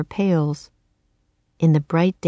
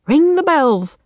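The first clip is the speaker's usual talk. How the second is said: calling out; 10 semitones higher, 4 dB louder than usual. Acted. Servant calls out in bustle.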